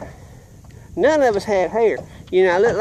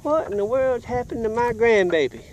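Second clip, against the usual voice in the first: retold alarmed grandparents; 6 semitones higher than usual. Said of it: "And they said".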